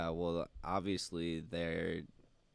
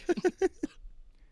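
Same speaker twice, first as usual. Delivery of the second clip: eagle voice; 5 dB louder than usual. Pretend. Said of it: "my eagle impression".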